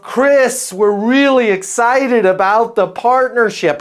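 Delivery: put-on high-pitched, half-hearted French accent; bad French accent. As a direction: imitate an excited French client, badly. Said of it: "I can't do a French accent".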